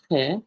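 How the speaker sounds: "he" as kheh, with a throaty kh; throaty het sound. Shown as a demonstration. Teacher sounding the name piece by piece, "he" as kheh. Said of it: "we have that ches sound".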